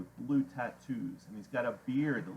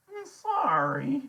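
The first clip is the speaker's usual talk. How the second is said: loud, squeaky-high nervous apology breaking into chatter; chattery high; 7 dB louder, slower than usual. A narrator's reading. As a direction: stammer a high, frightened sorry. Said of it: "his voice is chattery high".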